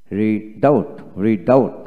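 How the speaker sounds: রিডাউট with no b before the final t; silent B. Shown as a demonstration. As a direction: say রিডাউট, dropping the b. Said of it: "বি হবে না".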